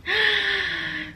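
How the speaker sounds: high, drawn-out gasp; sucked-in breath of shock. Retold or imitated. Woman reacting to pregnancy claim, shocked gasp.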